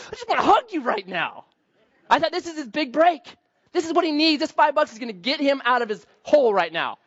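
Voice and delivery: overflowing with goodwill; gushing joy. Retold or imitated. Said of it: "I just wanted to hug that guy".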